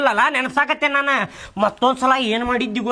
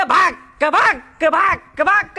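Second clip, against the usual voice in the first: spaced "baak" whacks, one by one; punchy vocal thump effects; imitated back thumps; 4 semitones higher, much slower than usual. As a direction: mimic slapping someone's back. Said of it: "ಅಂತೇಳಿ ಒಂದ್ ನಾಲ್ಕೈದು ಕೊಟ್ಟೆ".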